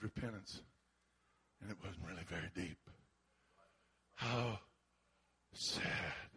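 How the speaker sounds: low, soft, sorrowful pulpit tone; grave reflection. Real, not acted. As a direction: sober hush after the shouting. Preacher drops to grave reflection.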